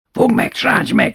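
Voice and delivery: urgent high whisper. Retold or imitated. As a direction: hiss the order under the sofa. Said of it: "súgta bátyó".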